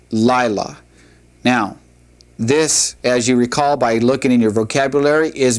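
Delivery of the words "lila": "Lila" with the accent up front; stress on first syllable. Shown as a demonstration. Teacher repeats "Lila" for students, first syllable stressed. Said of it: "accent has taken the emphasis off".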